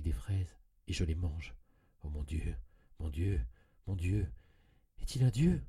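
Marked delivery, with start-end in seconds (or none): 2.0-5.6 anguished cry. A narrator's reading. Haunted narrator crying out to God, anguished and loud. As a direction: cry it out in terror.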